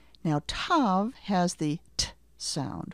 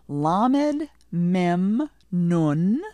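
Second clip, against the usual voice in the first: drilled letter list; 2 semitones higher, 5 dB louder, much slower than usual. Shown as a demonstration. Teacher calling out a letter cluster for learners. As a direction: call out the cluster for echoing. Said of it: "let you say the cluster".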